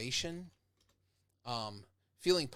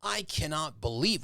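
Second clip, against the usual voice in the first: indignant; 3 semitones higher, 4 dB louder than usual. Shown as a demonstration. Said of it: "the best way to get people going is indignation".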